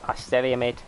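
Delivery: Australian accent. Shown as a demonstration. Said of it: "thought I was Australian".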